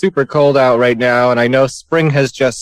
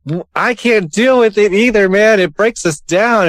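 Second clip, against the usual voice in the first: mock crying; 6 semitones higher than usual. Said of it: "and now I'm about to cry".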